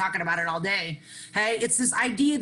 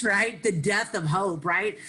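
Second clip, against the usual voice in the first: usual speaking voice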